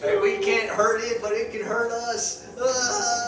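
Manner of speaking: mock panic. Panicking at the ghost.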